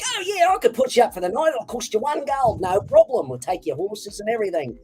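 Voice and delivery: a friendly Aussie dwarf offering a room; cheery Australian. Retold or imitated. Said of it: "they were all Australian".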